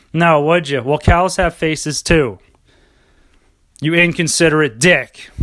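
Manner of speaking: smug, superior mock sermon to a meat eater; condescending. Smug health nut lecturing a meat eater, condescending. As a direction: look down your nose and lecture him. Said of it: "Talk down to him condescendingly".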